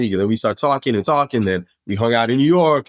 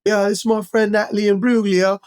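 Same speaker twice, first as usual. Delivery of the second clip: much higher offhand intro; casual name-drop; 11 semitones higher than usual. Retold or imitated. Dave introducing a famous friend, high nonchalant voice. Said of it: "and he's like".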